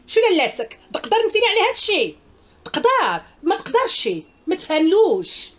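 high, loud scornful jeering; mocking taunt. Real, not acted. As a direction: taunt her with a laugh, then slow down on the end. Mocking a commenter on stream.

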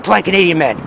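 low, gravelly superhero parody; name yourself in a mock Batman growl; Polite Canadian Man. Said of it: "keep your voice low and gravelly".

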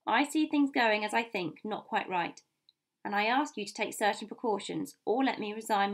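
earnest, emphatic captain, settling at the end; lightly voiced dutiful officer; firm sea captain. Captain asks for precautions for the ship's safety, firm. Captain defends his caution.

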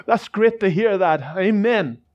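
joyful praise. Retold or imitated. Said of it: "He started doing another little dance".

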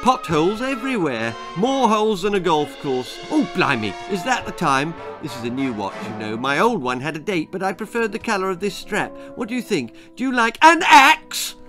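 nervous babble. Acted. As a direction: keep talking to stall, panic rising. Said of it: "stammered Jack".

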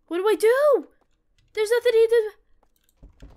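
high, loud wail; helpless panic. Real, not acted. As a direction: wail it as if cornered with no way out. Trapped with no way out.

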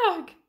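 storybook scream of fright. A narrator's reading. Fisherman sees the grinning shark, long scream. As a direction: let out a long "Arg". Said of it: "screamed the fisherman".

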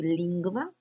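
"lingwa" said as LING-gwa, with the g and w both sounded; Latin pronunciation demo. Shown as a demonstration. Teacher modelling a Latin word for students, careful pronunciation. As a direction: say "lingwa" with a clear ngw cluster. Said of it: "N G U to ngw".

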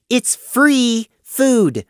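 "It's free food" as a plain fact, said slowly; matter-of-fact. Acted. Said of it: "like it was obvious".

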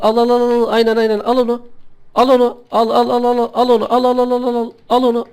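high, loud gleeful cheering; excited cheering. Real, not acted. Cheering a kill.

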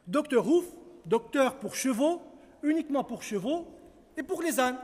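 loud, announcing the sign's words; proclaiming the sign. Acted. Reading the new door sign aloud, loud and proud. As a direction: call out the sign like a public notice.

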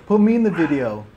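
chewing while talking; muffled laughing speech; mouth partly full. Real, not acted. Seen 1: veggies taken at -9; lips pressed, jaw working while laughing, talking.

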